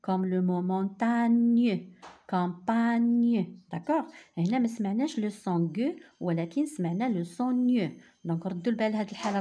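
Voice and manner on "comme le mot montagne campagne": montagne slow and loud, the gn clearly palatal; model word. Shown as a demonstration. Teacher drilling montagne for the class. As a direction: stress the gn in montagne. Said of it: "جي مع N كتعطينا ن".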